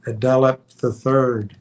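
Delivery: ordinary delivery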